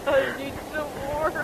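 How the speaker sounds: talking through a mouthful of gum; chewing gum while talking; mouth full. Real, not acted. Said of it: "me chewing gum really loud".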